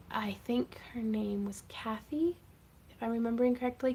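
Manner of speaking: a half-whispered, unsure aside. Real, not acted. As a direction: drop to a whisper while trying to remember. Unsure of a fan's name.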